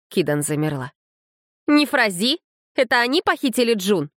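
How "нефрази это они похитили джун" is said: high, startled questions; shocked question. Acted. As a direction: ask it high in alarm.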